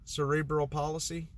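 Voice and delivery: unsure, "palsy" said like "policy"; questioning three-syllable "palsy"; mispronounced palsy. Real, not acted. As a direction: ask it with "palsy" as PAH-luh-see. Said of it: "Am I saying it wrong?".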